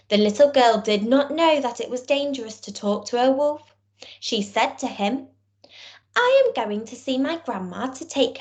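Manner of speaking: put-on storybook reading for young children; story narration. A narrator's reading. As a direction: tell it like a bedtime tale to small kids.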